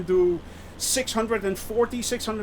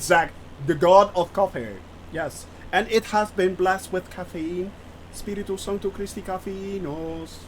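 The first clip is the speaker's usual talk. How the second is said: mock blessing. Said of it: "Yeah, I'm doing it again".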